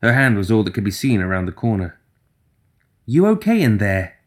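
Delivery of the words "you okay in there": mouse-like voice. Acted. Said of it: "Her mouse-like voice just barely tested the waters".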